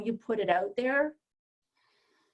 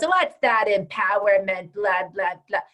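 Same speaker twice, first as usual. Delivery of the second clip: louder, lightly mocking dismissal; mild scoffing; 5 dB louder than usual. Coach imitating a scoffer belittling empowerment coaching, lightly mocking. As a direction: toss it off with a touch of scorn. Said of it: "someone that goes".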